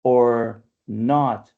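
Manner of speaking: slow "or not", landing on "not"; stressed second syllable. Shown as a demonstration. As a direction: draw out "or not" with the beat on "not". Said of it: "stress syllable".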